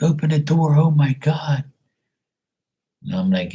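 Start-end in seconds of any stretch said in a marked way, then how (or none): 0.0-0.7 mock nephews. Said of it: "They're like". 0.7-1.6 whispered, higher gasp imitating the nephews; mock whisper. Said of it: "They're like".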